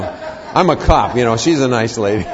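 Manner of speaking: laughing. Real, not acted. Self-deprecating joke.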